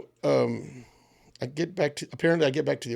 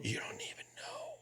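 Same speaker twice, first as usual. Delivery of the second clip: much higher and softer, slower; squeaky high echo; 17 dB quieter, slower than usual. Shown as a demonstration. Repeating his line to friends, squeaky high and slow. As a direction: drop the volume and squeak it up high, drawn out.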